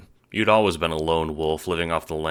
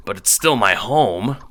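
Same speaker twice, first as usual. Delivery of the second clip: insistent; 5 semitones higher, 7 dB louder than usual. A narrator's reading. Renegade insisting on owning home.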